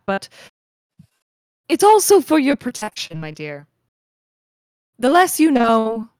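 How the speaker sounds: lightly voiced superior cautioning an underling; Eloise, condescending warning. Eloise warns her subordinate.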